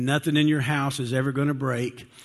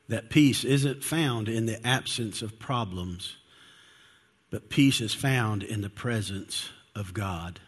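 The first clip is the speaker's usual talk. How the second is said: slow emphasis; 2 semitones lower than usual. Real, not acted. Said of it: "I really wanna get this one point across".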